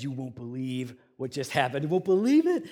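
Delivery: imitating an eager friend; retold excited news. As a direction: break big news, swelling on the repeat. Retells Carl's excited announcement.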